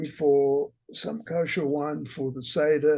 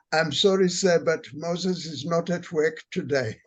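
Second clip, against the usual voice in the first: lightly put-on African accent for a punchline; a hint of African accent, politely apologetic; imitated African accent. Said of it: "in his accent, he said".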